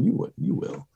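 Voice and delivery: lightly imitated high, small retort; retold movie retort. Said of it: "she kinda gives him the little".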